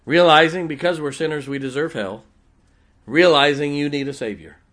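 loud, driven preacher; forceful preaching. Acted. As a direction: preach it out firmly.

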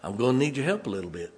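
quick pastor's appeal. Retold or imitated. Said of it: "come to you at this moment and say".

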